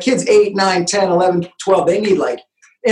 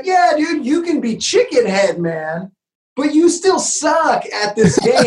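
higher teasing jab, slow and laughing at the end; mocking taunt; 4 semitones higher, slower than usual. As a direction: taunt the chicken-head kid. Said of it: "It's like".

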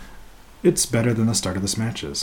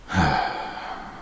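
long exasperated sigh; weary sigh; 8 semitones lower, 5 dB quieter than usual. Real, not acted. Podcaster despairing at a bad wrestling match, weary sigh. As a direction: let out a heavy breath.

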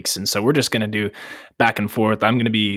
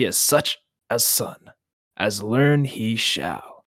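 Glaurung voice. Acted. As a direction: speak as a menacing old dragon. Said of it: "And the dragon spoke to Turin and said".

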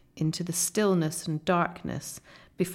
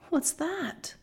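higher-pitched, alarmed question; startled question; 9 semitones higher, 3 dB quieter than usual. A narrator's reading. Lucy to Susan after a deafening crack, startled. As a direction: ask it in sudden alarm, voice lifted.

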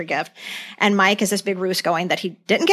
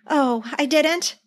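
mock innocent Jan; 6 semitones higher, slower than usual. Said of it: "And she goes".

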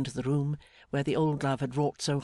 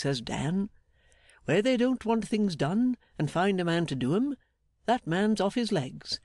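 jolly Mister Meagles; 4 semitones higher than usual. Acted. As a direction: sing his praises heartily, stretching the key words. Voices Meagles praising his friend.

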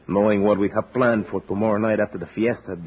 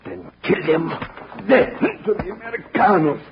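high, loud murderous command; vicious order; 11 semitones higher, 3 dB louder than usual. Acted. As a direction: bark the kill order.

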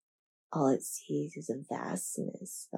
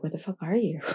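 laughing; faster than usual. Retold or imitated. Angry wife quote, laughed through.

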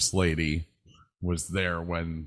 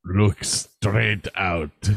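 attempted Mexican accent; 5 dB louder, much slower than usual. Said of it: "I can't do a Mexican voice".

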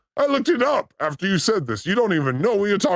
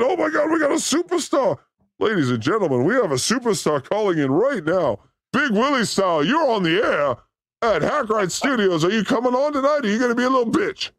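radio host announcer; 5 semitones higher than usual. Acted. Announcing a caller on air.

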